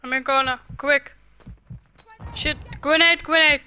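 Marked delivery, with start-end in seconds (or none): 2.8-3.6 loud urgent warning call; grenade warning yell. Real, not acted. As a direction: shout the grenade warning fast.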